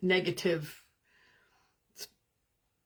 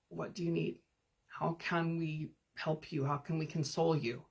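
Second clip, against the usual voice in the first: soothing comfort; 2 semitones lower, 5 dB quieter than usual. Retold or imitated. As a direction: coax a crying child to calm. Soothing a tantrumming inner child.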